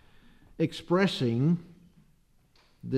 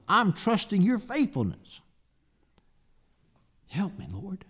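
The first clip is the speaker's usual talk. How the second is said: pleading prayer; 5 semitones higher than usual. Acted. Voicing a needy person's prayer.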